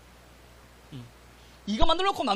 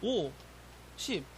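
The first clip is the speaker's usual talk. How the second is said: offhand, dropping softer as it goes; cocky solving; 8 dB quieter than usual. Shown as a demonstration. Teacher showing students how not to solve, mock cocky. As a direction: toss off the working like an overconfident student. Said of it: "이 건방의 극치야".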